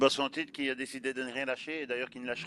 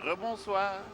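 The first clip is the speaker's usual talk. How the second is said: high put-on old man voice; 9 semitones higher, much slower than usual. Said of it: "apprends pas ta voix de vieux".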